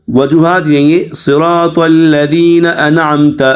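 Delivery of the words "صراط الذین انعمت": صراط الذین انعمت ending 'ana-amta', nun not held; hasty wrong reading. Shown as a demonstration. Teacher imitates hurried reciters' mistake, loose nun in انعمت. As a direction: run انعمت loose, adding a vowel after n. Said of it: "اب جلدی میں پڑھتے ہیں نا".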